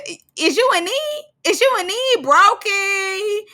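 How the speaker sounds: high, far-off voice doing Barbie's quip; Barbie impression. Vlogger quotes Barbie mocking the twins in a high put-on voice. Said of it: "Barbie's so funny".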